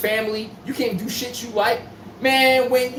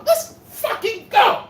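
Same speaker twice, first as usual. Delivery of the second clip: triumphant game-winner yell; 12 semitones higher, much slower than usual. Retold or imitated. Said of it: "looking like Jordan".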